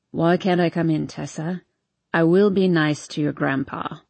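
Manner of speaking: lightly slurred, low and lazy; a hint of a drunk young man; town drunk. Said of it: "slurring his words".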